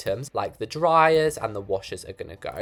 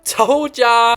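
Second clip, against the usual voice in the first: laughing meme; 11 semitones higher, 9 dB louder than usual. Pretend.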